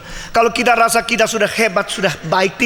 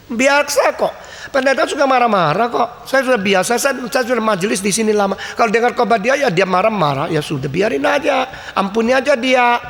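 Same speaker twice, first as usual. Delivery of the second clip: a hint of a breezy, shrugging church elder, pitched higher; lightly voiced old elder; 3 semitones higher than usual. Preacher voicing a complacent elder, casually dismissive. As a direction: toss it off like an elder who has heard it all.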